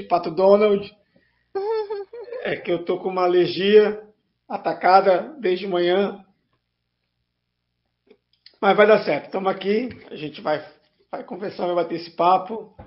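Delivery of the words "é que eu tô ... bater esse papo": allergy-roughened honking voice. Real, not acted. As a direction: talk through an allergy-worn honk. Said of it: "peço desculpa pela voz de, de Pato Donald".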